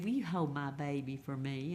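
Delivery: a gentle, mild ask; understated tender request; real sweet. Retold or imitated. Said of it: "she got real sweet".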